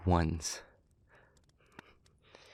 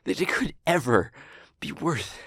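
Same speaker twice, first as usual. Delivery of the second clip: louder, emphatic, broken into hard-won phrases; anguished outrage; 3 semitones higher, 5 dB louder than usual. Acted. Speaker railing at the force that tormented them, anguished outrage. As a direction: build to a raised, incredulous protest.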